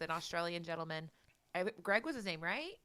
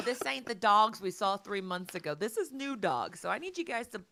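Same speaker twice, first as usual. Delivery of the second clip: youth counselor; 4 dB louder than usual. Pretend. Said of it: "I'm a youth counselor".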